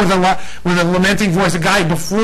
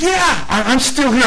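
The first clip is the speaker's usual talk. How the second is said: casual reply; 7 semitones higher than usual. Retold or imitated. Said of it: "So he says".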